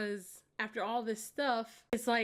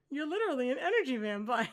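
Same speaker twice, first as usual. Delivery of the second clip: hunched over, laughing; faster than usual. Retold or imitated. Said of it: "like, all hunched over".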